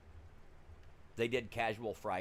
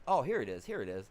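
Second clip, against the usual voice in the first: mock excited find; 4 semitones higher, 7 dB louder than usual. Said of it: "He goes".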